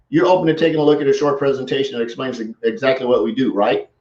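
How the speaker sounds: brisk, matter-of-fact run through; quick, brisk. Shown as a demonstration. Coach repeating the reply, brisk. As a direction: rattle off the offer quickly. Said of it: "You see the power in that?".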